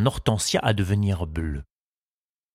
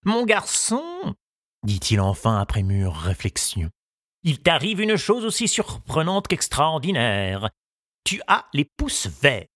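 lightly voiced old gardener, solemn and pitched up; 5 semitones higher than usual. The gardener telling Tistou the news, with a light old-man voice. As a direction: deliver the verdict gravely, a hint of an old man.

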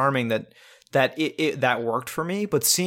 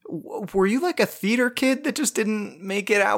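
high-pitched, baffled mock complaint; incredulous mockery; 9 semitones higher than usual. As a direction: stammer in disbelief at this guy. Voicing an irritated, baffled viewer.

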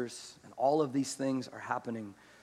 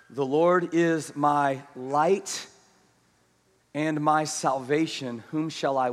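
slow scripture reading; 7 dB louder, much slower than usual. Acted. Reading psalm slowly, reverently.

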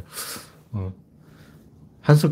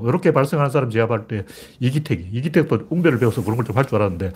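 ordinary talk

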